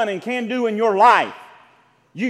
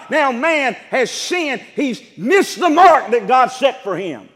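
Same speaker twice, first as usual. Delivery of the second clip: louder, fervent cry; preaching shout; 3 semitones higher, 4 dB louder than usual. Real, not acted. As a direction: call it out to the back row. Preacher climaxing on sin.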